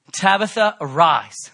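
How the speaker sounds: loud, ringing command to rise; Jesus calling the dead girl to rise. Acted. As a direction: call her up from death. Preacher voicing Jesus' command.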